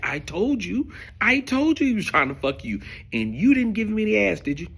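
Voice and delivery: high, gleeful told-you-so; gloating friend. Retold or imitated. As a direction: crow it like the friend who was right. Jimmy gloating, voiced higher.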